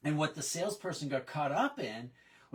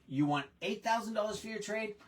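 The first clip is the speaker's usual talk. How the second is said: "You want eight thousand dollars for your trade?" repeated back higher, with a questioning lift on "thousand"; echoing question; 5 semitones higher than usual. Retold or imitated. Salesperson repeating the customer's price back to him, mild raised question. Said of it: "think like a customer".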